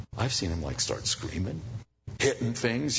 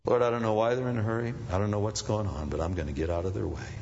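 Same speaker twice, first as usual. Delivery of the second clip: calm prayer; 2 semitones lower, faster than usual. Retold or imitated. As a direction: let it go gently. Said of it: "Not your job".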